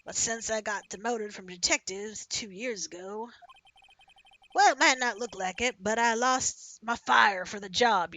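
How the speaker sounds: herd them along like a ranch hand; lightly voiced cowboy.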